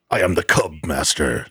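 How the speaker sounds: low, grand villain announcement; supervillain voice. Pretend. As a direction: declare it like a comic book villain. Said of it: "a Marvel supervillain".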